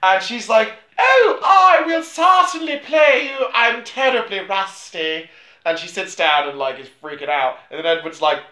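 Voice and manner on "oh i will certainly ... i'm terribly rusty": much higher, louder, slow flustered exclamation; mock flustered heroine. Margaret accepts the royal request, hammed-up fluster. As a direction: gush nervously, overdoing the modesty.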